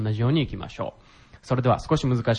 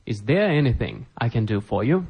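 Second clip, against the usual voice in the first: slow repetition; slower than usual. Shown as a demonstration. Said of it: "teacher repeats phrase for learners".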